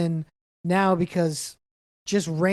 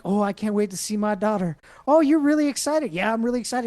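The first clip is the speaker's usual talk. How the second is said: higher, hammed-up eager chatter; mock excited couple; 3 semitones higher than usual. Middle-aged couple off to see their daughter, mock excited. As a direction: play an oblivious, happily excited couple. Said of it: "two nice middle-aged people ... walking down happily".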